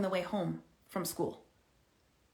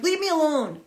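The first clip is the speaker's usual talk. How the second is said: put-on disrespectful teen; 5 semitones higher than usual. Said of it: "a disrespectful response".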